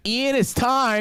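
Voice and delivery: mock chirpy mother; sing-song mom. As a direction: announce it like a proud mom. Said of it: "she's like".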